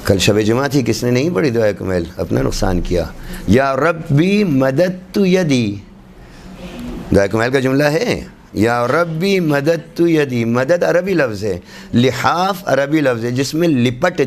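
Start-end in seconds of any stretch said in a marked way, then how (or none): 3.5-5.8 slow, measured Arabic recitation; slow devotional quote; supplication recitation. Shown as a demonstration. 8.5-10.4 slow, measured Arabic recitation; slow devotional quote; supplication recitation. Shown as a demonstration. Repeats the supplication line.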